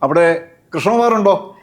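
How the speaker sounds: slow, deliberate old-time phone call, lightly acted; imitated trunk caller. Asking on a trunk call if Krishnakumar is there, imitated caller. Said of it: "ചോദിക്കും".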